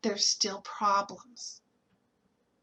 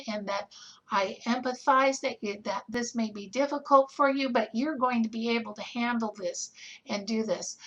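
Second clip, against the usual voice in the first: gentle reassuring. Shown as a demonstration. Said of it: "putting my hand on their forearm and saying".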